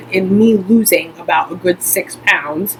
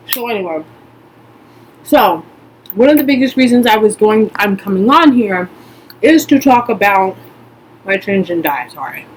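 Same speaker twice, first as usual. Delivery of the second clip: chewing while talking. Real, not acted. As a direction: mouth full, chewing between words. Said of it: "pardon me while I chew and talk".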